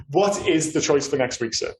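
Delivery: normal talking voice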